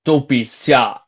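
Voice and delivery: captain calling the mare forward. A narrator's reading. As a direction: call her up, mock-friendly. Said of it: "he called to her".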